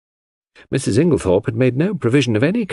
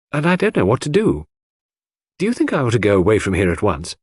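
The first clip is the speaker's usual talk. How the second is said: put-on higher young woman's voice, mildly anxious; troubled Cynthia; 3 semitones higher than usual. Cynthia asking Hastings whether to go away, mildly troubled. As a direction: confide a worry in a lifted voice.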